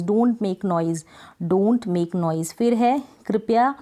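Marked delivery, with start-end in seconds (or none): 0.0-1.0 very slow, each word set apart; slow dictation. Shown as a demonstration. Teacher dictating an English sentence to learners, very slow. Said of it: "शोर करने की English होती है make noise". 1.4-2.5 very slow, each word set apart; slow dictation. Shown as a demonstration. Teacher dictating an English sentence to learners, very slow. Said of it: "शोर करने की English होती है make noise".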